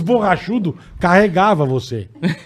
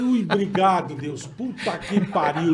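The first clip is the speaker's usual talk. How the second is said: relieved sigh; 9 dB quieter, slower than usual. Retold or imitated. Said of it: "eu falei".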